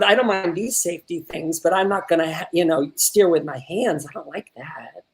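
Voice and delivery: lightly voiced low, hesitant objection; imitating improv character. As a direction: mimic a fussy learner driver, lightly. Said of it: "an improv about being like".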